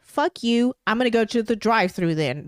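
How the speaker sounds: a mild mock outburst at the card machine; half-hearted angry cursing to herself; retold angry rant. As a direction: grumble it like she did in the car. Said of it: "This is literally me talking out loud".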